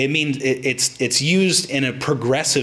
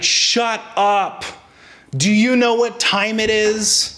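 higher snapping mock rebuke; mock angry retort; 8 semitones higher, slower than usual. Preacher mimicking himself yelling at the bell ringer. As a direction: snap back like a woken sleeper. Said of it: "I responded in instinct".

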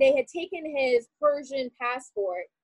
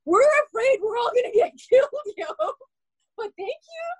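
sarcastic retort; 8 semitones higher than usual. Retold or imitated. To friends calling her family lucky, sarcastic and mock-cheery. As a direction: throw their congratulations back at them with biting irony. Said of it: "I'm like".

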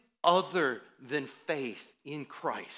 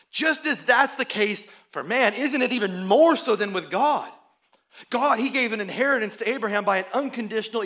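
excited; 4 semitones higher, 5 dB louder than usual. Retold or imitated. Paul voiced arguing his case.

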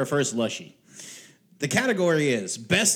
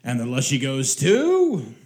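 put-on old radio serial announcer; 2 semitones higher than usual. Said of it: "my radio announcer voice".

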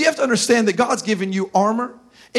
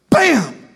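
punch sound; 4 semitones higher than usual. Retold or imitated. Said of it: "I went".

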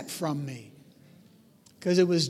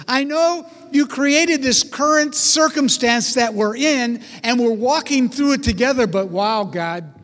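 awed prayer; 4 semitones higher, 3 dB louder than usual. Retold or imitated. Israelite praying to God while crossing the sea, awed and amazed. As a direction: marvel at God mid-crossing. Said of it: "walking through going".

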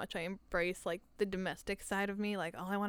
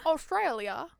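a hint of Australian accent on Australia; 5 semitones higher, 3 dB louder, slower than usual. Cohost echoing Australia in a bad Aussie accent. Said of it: "Sorry for that terrible accent".

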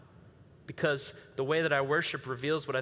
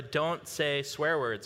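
taught rule; much slower than usual. Retold or imitated. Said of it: "when I was taught that".

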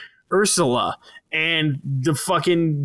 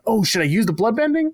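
hesitant Katara; 8 semitones higher than usual. Retold or imitated. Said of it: "Katara's like".

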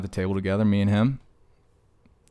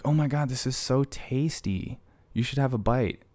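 mock gushing friend; 6 semitones higher than usual. Mocks food-sharing person.

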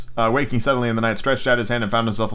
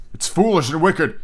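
slow, higher-pitched protest; faltering; 7 semitones higher than usual. A narrator's reading. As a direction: object haltingly, reluctant. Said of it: "he faltered".

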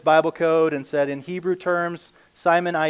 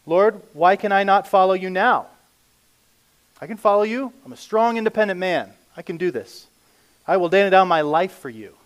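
lightly voiced cocky insistence, pitched up a little; overconfident protest; 3 semitones higher, 5 dB louder than usual. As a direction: protest with mild mock self-assurance. Voices Peter's overconfident protest to Jesus.

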